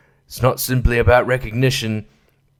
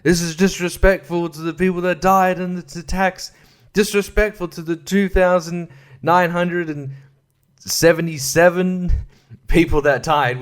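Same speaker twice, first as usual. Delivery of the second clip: hammed-up indignant accuser, higher pitch; mock outrage; 3 semitones higher than usual. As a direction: play the offended side, voice pitched up. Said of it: "they both will claim that".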